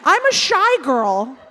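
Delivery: slow, emphatic declaration; shouted declaration. Real, not acted. Guest insisting she is shy, slow and emphatic. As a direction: announce it slowly to the room. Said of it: "because you shouted it".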